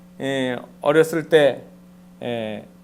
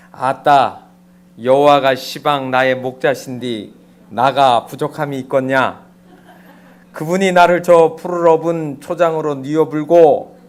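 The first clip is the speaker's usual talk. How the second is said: loud, hearty Jeolla dialect reading of Psalm 23; Jeolla dialect imitation; 5 dB louder than usual. Pastor reads Psalm 23 to his congregation in hammed-up loud Jeolla dialect. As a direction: boom out the psalm in thick Jeolla dialect, relishing it. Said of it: "제가 한번 흉내를 내볼 테니까".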